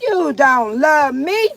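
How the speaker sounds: slow emphatic. Real, not acted. Woman telling doubters their love is fake, slow and emphatic. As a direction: drag each word out to make the point. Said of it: "Your love ain't genuine anyway".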